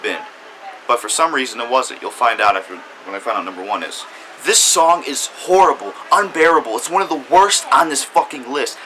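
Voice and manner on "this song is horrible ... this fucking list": heated, raised-pitch condemnation; angry rant. Real, not acted. Reviewer tearing into one of the year's worst songs, angry. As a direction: rant with exasperated disgust. Ranting about the worst song.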